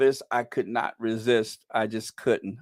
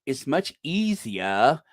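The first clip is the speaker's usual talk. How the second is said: mocking quote; slower than usual. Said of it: "as he says here".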